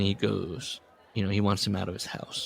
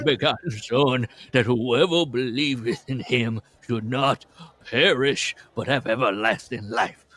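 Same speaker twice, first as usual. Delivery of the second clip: menacing shaking baritone. Retold or imitated. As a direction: lightly intone the verse like a stern father. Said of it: "in a menacing, shaking baritone".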